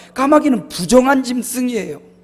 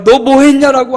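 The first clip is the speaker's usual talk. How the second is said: louder, sharper stern demand; a father asking his son what he's done; father's rebuke; 5 semitones higher, 7 dB louder than usual. Retold or imitated. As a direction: throw the question at him. Father's cutting question retold.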